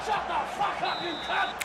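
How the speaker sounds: high, furious yell at the ref. Real, not acted. Streamer raging at the offside call, high furious yell. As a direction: scream abuse at the referee, pitched high. Streamer yelling at game referee.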